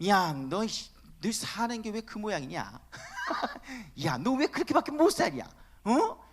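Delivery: mock sneering taunt, lightly voiced; a hint of a scornful God jeering at his children; mocking scold. Preacher imagining a mocking God taunting believers, a light sneer. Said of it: "이렇게 조롱하거나".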